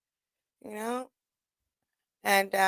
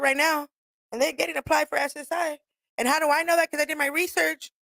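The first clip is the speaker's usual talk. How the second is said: higher-pitched, cocky mock speech; retold taunting comeback; 4 semitones higher than usual. Speaking for all Orange County to an L A rival, retold tauntingly. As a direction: lay out the comeback like a spokesperson.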